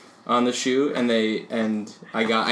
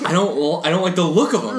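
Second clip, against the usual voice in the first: put-on Spanish accent; 5 semitones higher than usual. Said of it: "That was my Spanish accent".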